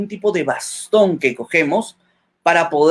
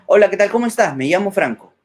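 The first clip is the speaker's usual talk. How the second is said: lively varied tone; 3 semitones higher than usual. Shown as a demonstration. Teacher shows how playing with tone sounds, lively greeting. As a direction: play with the melody, greet them warmly and brightly. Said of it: "eso es jugar con la voz".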